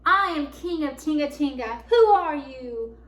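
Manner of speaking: loud, bold proclamation, slowing on the question; brave big voice. A narrator's reading. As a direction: answer the big voice boldly, full force. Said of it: "answered the big voice".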